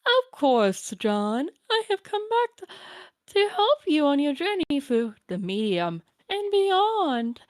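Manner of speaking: lightly voiced doting grandmother; a hint of a kindly old granny; old grandma voice. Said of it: "my Nana voice".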